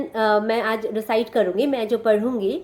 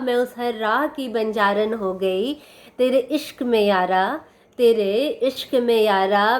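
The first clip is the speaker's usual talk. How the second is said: poem recitation. Acted. Reciting a love poem at sister's request, measured poetry recital. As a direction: recite each line deliberately, letting the last word linger.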